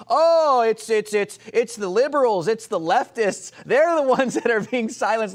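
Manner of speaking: high, whiny mock of her excuse, loud; hammed-up mocking quote of a politician; mocking impression. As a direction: sneer out her stammering excuse. Mocking her claim of silencing.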